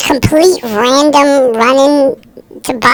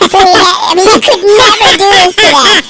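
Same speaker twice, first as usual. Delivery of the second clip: higher, amused delivery through laughter; laughing; 6 semitones higher than usual. Real, not acted. Host recalling a prank you could never do today, laughing. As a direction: let real laughter lift the words.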